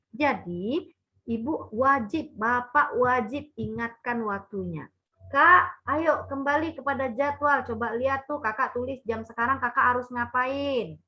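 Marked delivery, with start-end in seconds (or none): 5.3-11.0 calm, friendly reminding voice; gentle reminder. Shown as a demonstration. Teacher demonstrating the right way to remind a child. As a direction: remind the child kindly, no scolding. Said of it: "Itu caranya".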